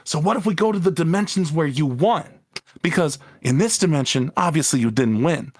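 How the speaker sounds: lightly voiced eager gangster henchman; a hint of an old-timey mob underling; 1930s minion voice. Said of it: "minion guy's got that, like, nineteen thirties minion voice".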